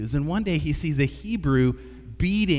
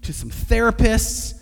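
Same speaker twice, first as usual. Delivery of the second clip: rising into a hyped, higher cheerleader voice; modern pep talk; 4 semitones higher than usual. Pretend. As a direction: gush encouragement like a coach to a kid. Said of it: "the conversation doesn't go that way at all".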